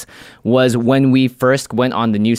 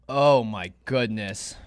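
slow relieved sigh; 3 semitones lower, 6 dB quieter, much slower than usual. Real, not acted. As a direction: breathe out the relief slowly. Relief drinking milk.

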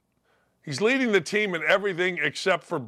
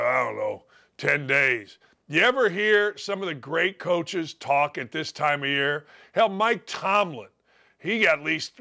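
ordinary talk

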